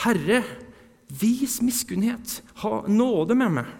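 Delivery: loud, high pleading shout; full-throated cry. Retold or imitated. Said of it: "ropet med full hals".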